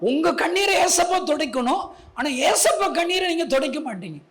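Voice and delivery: high-pitched, worked-up protest; acting out an indignant appeal; retold exasperated complaint. Acts out his complaint about weeping God.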